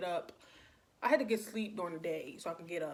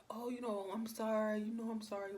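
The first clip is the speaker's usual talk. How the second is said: higher, lightly mimicked apology; apologetic caller; 3 semitones higher than usual. Late caller excusing himself, lightly imitated apology. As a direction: lightly put on his sheepish sorry, pitched up. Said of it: "So he like".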